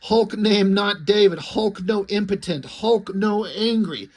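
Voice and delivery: lightly voiced brute in a huff; mildly indignant, emphatic caveman protest; Hulk. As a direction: end on a slow, drawn-out growing objection. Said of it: "Hulk doesn't like that, so he blows up".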